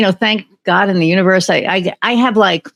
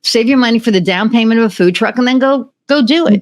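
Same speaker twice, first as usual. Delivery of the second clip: higher-pitched retold urging; retold encouragement; 6 semitones higher than usual. Guest retells urging the nurse toward a food truck, encouraging. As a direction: urge her on, pitch climbing to the end.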